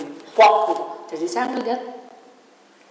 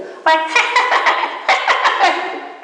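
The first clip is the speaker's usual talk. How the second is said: high, loud staccato devil laugh; duck-like cackle; 11 semitones higher, 7 dB louder than usual. Retold or imitated. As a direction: imitate a demon cackling like a duck. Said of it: "Kayak bebek". (tawa melengking seperti bebek)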